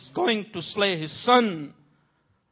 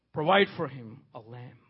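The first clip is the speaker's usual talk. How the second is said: low statement; 7 semitones lower, 6 dB quieter than usual. Real, not acted. First statement, then hushed repeat.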